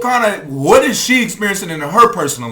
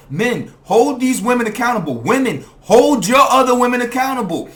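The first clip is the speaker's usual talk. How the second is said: rallying call; 6 semitones higher, 5 dB louder than usual. Real, not acted. Calling out to viewers.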